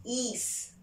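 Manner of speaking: "país" split into pa, pause, ís; "país" broken between a and accented í; vowels separated. Shown as a demonstration. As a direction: sound out "país" softly as two separate syllables. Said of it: "separación".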